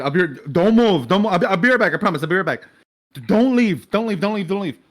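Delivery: high, urgent, repeated plea; flustered pleading. Acted. Sebastian begging William to stay before running off, flustered pleading. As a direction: plead in a rising panic, tumbling over the words.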